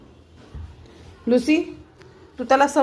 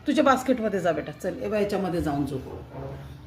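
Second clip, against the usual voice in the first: coaxing; 3 semitones lower, 5 dB quieter than usual. Real, not acted. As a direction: gently settle the cat to sleep. Coaxing cat into basket.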